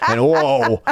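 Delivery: high squealing laugh through the words. Real, not acted. Cohost jokes about Karens, cracking up high.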